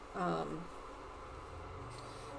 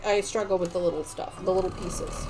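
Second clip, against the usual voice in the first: talking through hiccups; interrupted by hiccups. Real, not acted. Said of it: "And now I have the hiccups".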